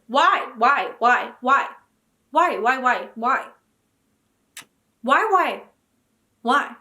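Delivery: loud repeated whys; exasperated whys. Real, not acted. Protesting the petition against Emily Henry, loud exasperated whys. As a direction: plead over and over in exasperation.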